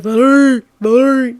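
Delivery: calling out. Retold or imitated. Stepbrother's friend rousing Valerie, calling out. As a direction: call the name twice, firmly.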